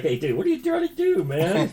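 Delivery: lightly mocking high buddy voice; squeaky mock of a friend; imitating his buddy. Teasing his podcast cohost with a high mock voice. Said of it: "That's exactly how I sound".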